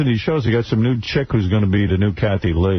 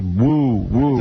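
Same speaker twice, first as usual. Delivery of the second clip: understated imitation of hooting; imitated woo calls. Retelling fan at an appearance, mildly imitated woos. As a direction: lightly mimic the fan's woos. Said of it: "just went".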